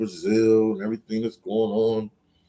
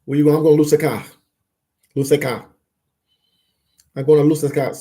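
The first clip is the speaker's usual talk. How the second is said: higher, louder pretend exchange ending on "Lusaka"; playful role-play; 4 semitones higher, 5 dB louder, much faster than usual. Shown as a demonstration. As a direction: act out the question and a proud answer. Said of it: "Just say it fast".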